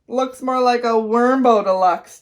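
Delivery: slow, mocking tease; teasing. A narrator's reading. Buster teasing Carla about her sandwich, mocking. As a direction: drag it out to mock her. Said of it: "teased Buster".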